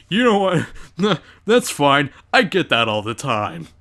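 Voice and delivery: mock self-satisfied brush-off; smug humblebrag. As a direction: play the guy who loves compliments, voice sinking at the end. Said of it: "I don't wanna be that guy who's like".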